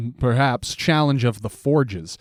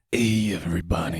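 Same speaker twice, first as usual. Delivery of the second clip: sensual put-on wrestler voice, lower and quieter; 8 semitones lower, 6 dB quieter than usual. Opening the episode to everybody: sensual Macho Man Randy Savage voice. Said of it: "This is your Macho Man".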